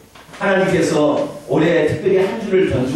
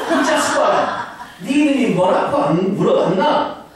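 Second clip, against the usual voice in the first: much higher, laughing Gyeongsang teacher; exasperated Gyeongsang teacher; 6 semitones higher than usual. Retold or imitated. Teacher losing patience with the student, Gyeongsang dialect. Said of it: "경상도 말로 해보려고".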